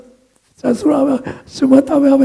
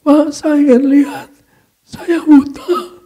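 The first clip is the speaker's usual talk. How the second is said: higher, drawn-out begging; insistent plea; 4 semitones higher, slower than usual. Retold or imitated. Blind man pressing the pastor to pray, insistent plea. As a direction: plead slowly, stretching the last words.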